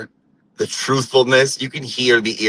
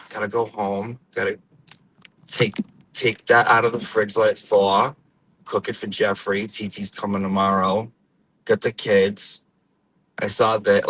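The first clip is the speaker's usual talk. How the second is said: put-on sigh, then softer old-school Portuguese-American accent; imitated weary Portuguese-American housewife; Portuguese-American woman; 2 semitones lower, 3 dB quieter than usual. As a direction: run through chores as a Portuguese-American mother. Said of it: "I could just, like, be like".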